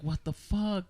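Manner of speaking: high-pitched, mock-stunned disbelief; retold shock. Thirteen-year-old hearing that story, retold shock. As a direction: react as if floored by a story. Retelling her shocked younger reaction.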